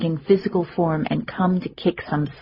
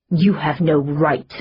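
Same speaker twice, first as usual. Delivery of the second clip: snarled. Acted. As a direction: growl it at his sister. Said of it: "he snarled".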